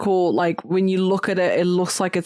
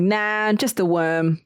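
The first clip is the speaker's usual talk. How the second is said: northern-ish worm. Retold or imitated. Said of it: "that sounds a bit northern".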